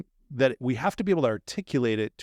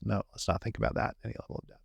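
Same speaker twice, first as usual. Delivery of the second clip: quiet, fast brush-off; hurried and hushed; 7 dB quieter, much faster than usual. Retold or imitated. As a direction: rush it, quietly, to dismiss. Voicing inner instinct.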